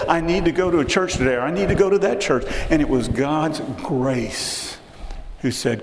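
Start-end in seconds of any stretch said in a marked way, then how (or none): 0.1-2.4 inner voice. Retold or imitated. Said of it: "something just said".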